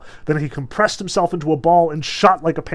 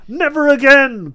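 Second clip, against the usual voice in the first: croaked; 10 semitones higher, 8 dB louder than usual. A narrator's reading. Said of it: "croaked the head".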